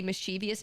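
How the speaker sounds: "mischievous" as mis-CHEE-vee-us; common mispronunciation. Shown as a demonstration. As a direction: say "mischievous" with four syllables, stress on CHEE. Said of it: "do they say".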